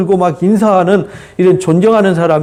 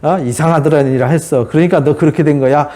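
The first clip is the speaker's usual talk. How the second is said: lower-pitched, matter-of-fact mock blaming; condemning; 4 semitones lower than usual. Friend claiming to comfort but blaming, mildly condemning. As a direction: pass judgment in a lowered pitch. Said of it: "이렇게 정죄하는 거하고 똑같은 거예요".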